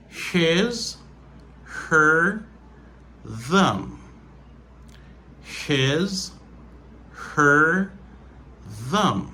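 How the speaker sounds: "His, her, them" with h and th sounded; stressed, separate "His, her, them"; careful full forms, "His, her, them"; normal full pronunciation. Shown as a demonstration. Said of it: "c'est prononciation normale".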